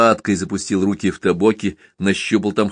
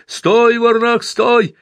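much higher, louder shout of stop; calling out; 13 semitones higher, 4 dB louder, much slower than usual. A narrator's reading. Driver running after the escaping lad, shouting. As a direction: bellow after someone running off. Chasing a fleeing runaway.

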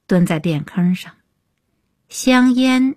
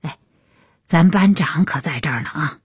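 lightly teasing caution, understated; joking persuasion; 4 semitones lower than usual. A narrator's reading. Peng Fei cautions Li Wei before the squad leader, mildly joking. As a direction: nudge him half in jest, kept low-key. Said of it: "开着玩笑劝".

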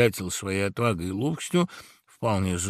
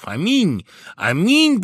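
loud rising shout of amen; guests' cheer; 9 semitones higher, 7 dB louder, slower than usual. Acted. Guests cheer the blessing with a loud amen. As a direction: cry it out like a joyful crowd. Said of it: "послышались отовсюду возгласы".

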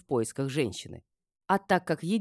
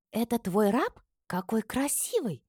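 high, cooing delight; admiring; 8 semitones higher than usual. A narrator's reading. Friend admires the handsome slave, delighted. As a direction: gush over him. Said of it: "Подруга восхищённо потянулась".

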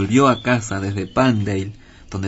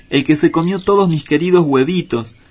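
tearful outburst; 6 semitones higher, 5 dB louder than usual. A narrator's reading. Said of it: "una vez más estalló en lágrimas".

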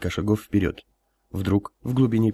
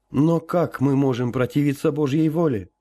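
higher pleading lament; anguished; 6 semitones higher than usual. Acted. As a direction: plead it with longing grief. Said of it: "с тоской спросил император".

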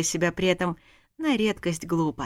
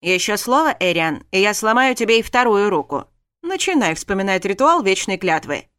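louder, menacing cut-off; angry threat; 5 dB louder than usual. Acted. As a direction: threaten him through clenched teeth. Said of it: "Даррен злобно прервал его".

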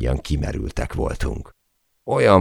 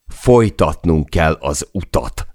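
obsessive repeating; 2 semitones higher, 4 dB louder than usual. Acted. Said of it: "ismételtem megszállottan".

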